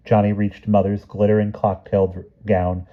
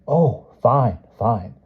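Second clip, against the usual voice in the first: relieved cousin; 4 semitones higher, much slower than usual. A narrator's reading.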